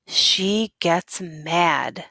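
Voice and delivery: slow, weighty reveal; story voice, heavily slowed; story narration. Acted. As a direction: drag it out for effect. Teacher reads picture book aloud.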